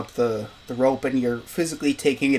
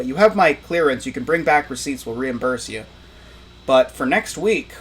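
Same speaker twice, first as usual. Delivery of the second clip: office manager voice; 5 dB louder than usual. Acted. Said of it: "Uncle goes".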